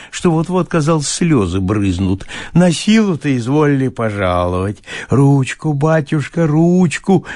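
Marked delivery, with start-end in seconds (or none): 2.5-7.2 lightly voiced tipsy bailiff; a hint of a peasant begging to kiss a hand; fawning. Bailiff begs to kiss the master's hand, lightly fawning. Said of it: "прибавил он, уже загодя протягивая губы".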